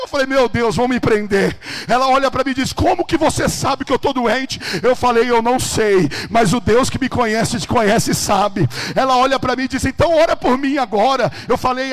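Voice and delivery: thundering pulpit storytelling; full-force preaching. Acted. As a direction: drive every phrase out at full volume.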